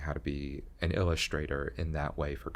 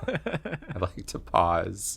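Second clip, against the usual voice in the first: very slow, drawn-out words with a laugh; slow demo; 3 semitones higher, 3 dB louder, much slower than usual. Shown as a demonstration. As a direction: show off the slow pause. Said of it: "I talk very slow".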